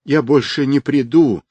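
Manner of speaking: high-pitched panicked cry; high, restrained wail; frantic wail. A narrator's reading. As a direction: cry out desperately, begging to be spared. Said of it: "истошно завопил обрюзший".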